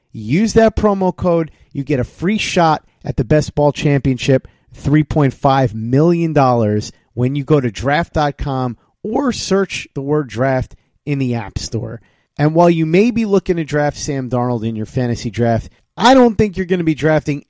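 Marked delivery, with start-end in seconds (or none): 0.1-12.0 upbeat sponsor read, pitching the app. Acted. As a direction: read it like a podcast ad spot.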